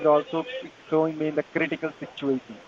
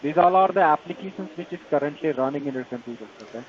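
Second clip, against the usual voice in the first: Indian call center. Real, not acted. Tech support scam call agent.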